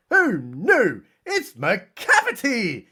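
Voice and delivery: swooping, hammed-up cry of dismay; mock dismay. Cats react to Macavity's arrival, mock dismay. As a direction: stretch it out in mock horror.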